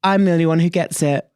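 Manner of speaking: put-on playful American accent, smug New Yorker; mock American accent. Boasting to the co-host about New York in a mock American accent. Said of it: "You were probably doing an American accent".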